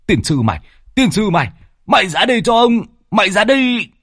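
furious shout rising; angry yell. Acted. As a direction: drag him out with a yell. Út drags Phong out yelling.

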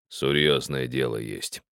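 put-on low, slow and weighty, an old miner's command; old miner giving the maid an order, low and weighty; weighty old man. A narrator's reading. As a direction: speak low and solid, like an elder who expects to be obeyed. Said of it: "наказывал он с обычной внушительностью".

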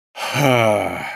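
weary breathy huff; tired exhale. Acted. Worn-out ruler huffing at her impatience. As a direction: let out a tired sigh of a laugh. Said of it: "выдохнул я устало".

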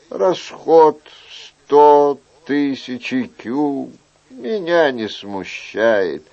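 slow, measured royal assurance; benevolent king. Acted. King promises young man help in his secret, benevolent. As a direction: promise help unhurriedly, with weighty pauses.

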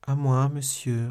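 slow, high, weak reply; dying voice. A narrator's reading. Poisoned woman answering the man, dying voice. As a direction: drag it out as life ebbs. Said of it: "d'une voix mourante".

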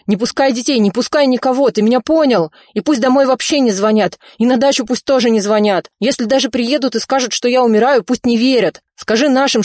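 loud, high, panicked no; alarmed shout into the phone. A narrator's reading. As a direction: cut him off with a shout. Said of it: "закричал Ризо".

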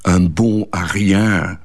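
slow, carefully savoured French; Un bon à rien said slowly in proper French; French phrase. Real, not acted. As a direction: relish the French words, slowly. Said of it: "zoals ze dat zo mooi zeggen in het Frans".

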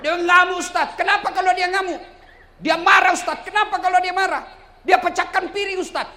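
high, loud acted protest; complaining husband. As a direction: wail the excuses at the ustaz. Acts husbands complaining to the preacher. (keluhan suami dengan suara tinggi dan keras)

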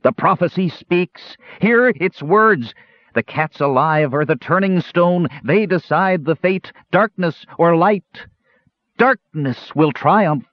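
high, slow, drawn-out proclamation; shouted prophecy. A narrator's reading. Possessed kender proclaiming the prophecy of darkness, high slow shout. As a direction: intone it high like a possessed oracle. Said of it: "then shouted".

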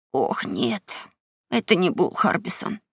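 soft, frightened whisper; scared whisper. Acted. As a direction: whisper it in dread. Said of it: "прошептал Геккельбери".

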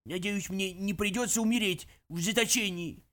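hammed-up feeble plea; faked weakness. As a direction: play-act being weak. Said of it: "решил разыграть слабость".

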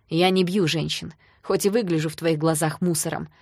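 restrained anger ending in a loud order; through gritted teeth. Acted. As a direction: grind it out, then bark the order to leave. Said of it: "процедил он сквозь зубы".

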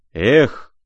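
cried out. A narrator's reading. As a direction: fling out a sudden cry. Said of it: "крикнул он". (громкий отчаянный выкрик)

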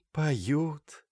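a holy fool announcing news in a thin voice; thin little voice. Acted. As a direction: say it small and thin, like a simple soul. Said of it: "тоненьким голоском сообщила блаженная".

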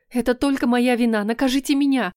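put-on girl begs the prince to punish her, desperate; desperate plea. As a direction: offer yourself up instead. Camila takes the blame.

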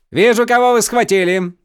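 put-on the young count interrupts his captain angrily; cutting outburst. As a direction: snap the servant silent. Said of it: "Оборвал его".

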